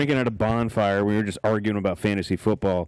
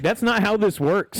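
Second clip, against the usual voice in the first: laughing; 9 semitones higher, slower than usual. Retold or imitated. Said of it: "he was like".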